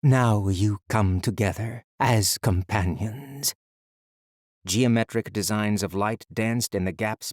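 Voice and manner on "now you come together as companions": stern motherly voice. Acted. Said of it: "both loud and soft, stern and motherly".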